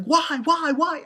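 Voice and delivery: imitating anguished cry. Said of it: "she's like".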